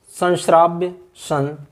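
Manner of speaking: "संश्राव्य" said slowly with a palatal n; palatal nasal. Shown as a demonstration. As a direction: draw out san before shraavya in "संश्राव्य". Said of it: "इसका सही उच्चारण होना चाहिए". ("संश्राव्य" में तालु वाला न)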